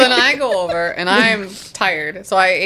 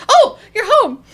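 tipsy delight; 12 semitones higher, 3 dB louder than usual. Retold or imitated. Imitating drunk friend, laughing.

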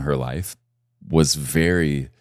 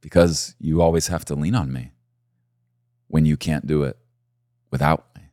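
voice of God; 3 semitones lower than usual. Acted. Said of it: "he'd give us".

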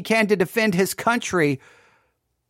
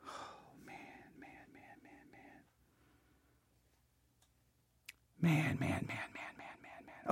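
whispering; 21 dB quieter than usual. Real, not acted. Stunned after hearing the clip.

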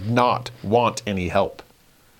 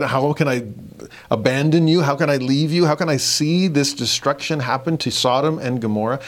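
anguished plea; 4 semitones higher than usual. Retold or imitated. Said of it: "He could have said".

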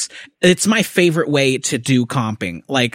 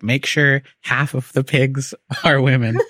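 mock script read. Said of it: "they write into the script".

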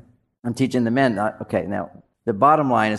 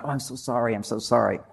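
imitated sympathetic apology; 3 semitones lower, 6 dB quieter than usual. Imitates women apologizing to each other.

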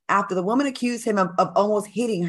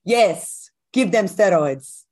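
slow, hammed-up Russian accent, a bit louder; mock Russian accent; 3 dB louder, much slower than usual. Co-host mocking Russia's government, in a slow joking Russian accent. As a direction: play a Russian official in a jokey Russian accent. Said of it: "That's my best accent I can do".

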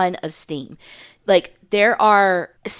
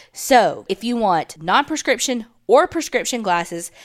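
upbeat sponsor read, slowing for the web address. Acted. Co-host reads the sponsor ad to listeners in an upbeat, slowing read. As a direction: sell the glasses to the listeners.

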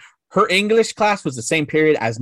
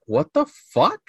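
friends' baffled question, higher pitched; confused; 4 semitones higher, slower than usual. Retold or imitated. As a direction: imitate friends' confused disbelief. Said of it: "like, confused".

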